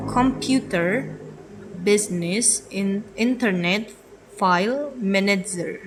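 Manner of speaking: Russian-accented loanwords, "manager" as menedzher; Russian way of saying "internet" and "manager", sounded as spelt; Russian pronunciation. Shown as a demonstration. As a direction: say "computer" and "manager" as Russian borrowed words. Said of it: "pronounce it, uh, mm, different".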